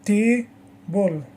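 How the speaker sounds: TAble, first syllable strong; careful teacher's Table, stressed at the front. Shown as a demonstration. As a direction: lean on the ta of Table, let the rest drop. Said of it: "The stress in the first syllable".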